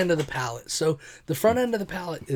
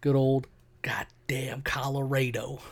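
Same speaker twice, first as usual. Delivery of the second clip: slow mock-reverent whisper; slower than usual. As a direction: breathe the words out slowly. Mock-proud whisper about the brewery.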